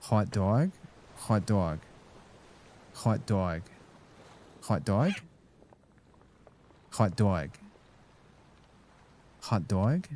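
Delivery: put-on regional accent impression; Mikey Madison in Anora. Streamer answers a request for accented hot dog, Mikey Madison accent impression. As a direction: say it in a movie character's accent. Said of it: "I can say hot dog like Mikey Madison from, uh, Anora".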